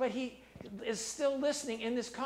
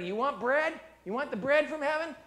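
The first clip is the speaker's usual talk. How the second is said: louder, urgent offering; eager Jesus voice; 6 dB louder than usual. Acted. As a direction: push it out, eager to give. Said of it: "Jesus says".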